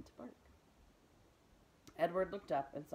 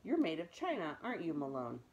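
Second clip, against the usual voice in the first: louder, playful gentle giant; big bearded man; 6 dB louder than usual. Acted. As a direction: tease the toy kindly. Voice of Bull.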